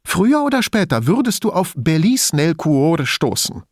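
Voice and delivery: high-pitched disgust, stressing "Belize nel Cuore"; full of loathing. A narrator's reading. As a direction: pronounce that name with loathing. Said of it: "sondern voller Abscheu".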